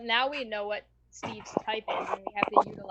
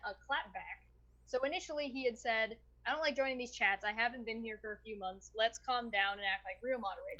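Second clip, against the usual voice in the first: muffled, distant mic sound; too far from the microphone; 13 dB quieter than usual. Real, not acted. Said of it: "What happened to your mic?".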